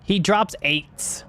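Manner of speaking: slow, slurred words; slurred speech. Real, not acted. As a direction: slur "He drops eights" slowly together. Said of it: "I slurred a little bit".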